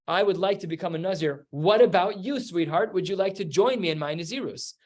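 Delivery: gently asking, voice lifted; sweet invitation. Retold or imitated. Husband inviting his wife to join his Nazirus, sweetly asking. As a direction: coax her like a sweetheart. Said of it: "He's not asking her".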